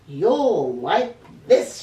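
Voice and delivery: sly. Acted. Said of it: "she said".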